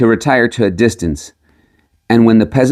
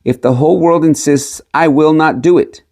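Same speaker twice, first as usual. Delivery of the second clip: loud refusal; 5 semitones higher than usual. Acted. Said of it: "he cried with all his might".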